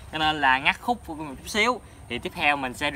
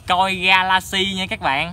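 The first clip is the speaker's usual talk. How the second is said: excited; 4 semitones higher, 4 dB louder, slower than usual. Real, not acted. Reveals fish name.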